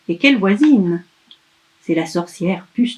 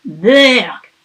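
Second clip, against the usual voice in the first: louder disgusted witch yelp; disgusted cry; 2 semitones higher, 6 dB louder than usual. Acted. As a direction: spit it out in disgust. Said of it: "crie-t-elle".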